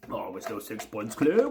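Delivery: put-on Scouse fan voice; mock a complacent fan in a Scouse accent. Shown as a demonstration. Fan showing off a Scouse accent as a complacent supporter, mocking Scouse. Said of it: "say in my Scouse accent".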